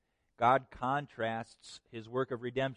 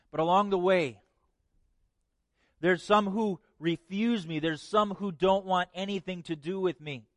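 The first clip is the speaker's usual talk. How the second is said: higher, emphatic voice speaking for God; earnest preaching; 5 semitones higher, 4 dB louder than usual. Acted. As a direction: press the point home as God.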